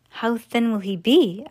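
slow, mildly worried question; anxious question. Acted. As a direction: ask it slowly, a touch uneasy. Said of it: "asked Missus T V anxiously".

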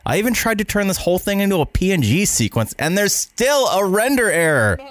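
frustrated rant. Acted. Editor freaking out over error.

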